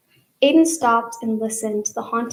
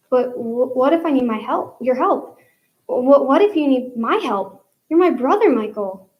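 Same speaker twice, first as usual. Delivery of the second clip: rising pleas, louder at brother; pleading with friend; 2 semitones higher, 4 dB louder than usual. Acted. Aiden begs his friend to come, stammering plea. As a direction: stammer the plea to stay together.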